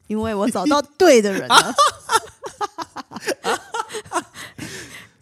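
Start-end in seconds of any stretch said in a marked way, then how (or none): 1.6-5.0 nervous laugh. Real, not acted. Caught by the host's joke.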